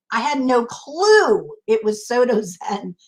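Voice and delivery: amused, laughing through the words. Real, not acted. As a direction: laugh at your own cluelessness. Laughs at own cluelessness.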